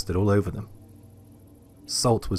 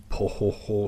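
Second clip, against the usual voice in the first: weird po ho ho; 3 dB quieter than usual. A narrator's reading. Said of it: "making this weird".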